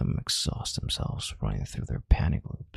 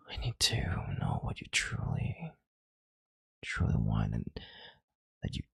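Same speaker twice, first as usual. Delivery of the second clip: whispering; 4 semitones lower, 4 dB quieter than usual. Acted. Intimate demand to listener.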